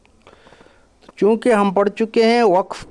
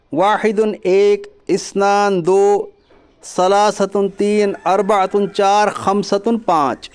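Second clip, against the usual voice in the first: each Arabic number said slowly and clearly for pupils; slow teaching-pace count; slow counting demo; slower than usual. Shown as a demonstration. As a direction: spell out واحدن اثنان ثلاثتن slowly like a teacher. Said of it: "عربی میں one ٹو کو بولتے ہیں".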